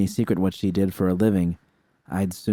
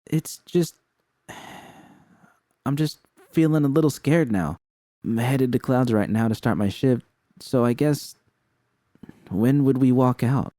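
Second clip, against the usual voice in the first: a little scared; 6 semitones higher than usual. Acted. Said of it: "She sighed".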